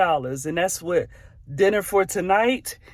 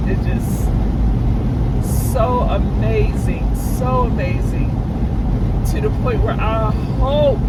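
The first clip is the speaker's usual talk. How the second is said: moved to tears, halting and higher; overwhelmed, tearful awe with long pauses; emotional; 3 semitones higher than usual. Real, not acted. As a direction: struggle to get the words out through feeling. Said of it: "I'm so emotional".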